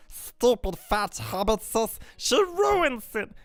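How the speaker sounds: drawn-out creature voice, whining then crooning; Smeagol. Acted. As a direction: wail it like an intense, wretched creature. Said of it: "Now, Smeagol is a bit more intense".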